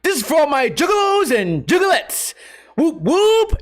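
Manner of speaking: high lisping hype-man voice; high, giddy juggalo shout-out; imitating a goofy YouTuber. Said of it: "He goes".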